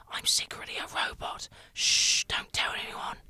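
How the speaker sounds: secretive hushed whisper. A narrator's reading. Storyteller confiding a secret to a small child, whispering. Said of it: "I whispered".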